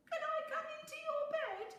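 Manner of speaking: high, fast squeaky mouse plea; quick high little voice; pleading Little Mouse. A narrator's reading. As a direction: beg to be let in again. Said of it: "asked Little Mouse".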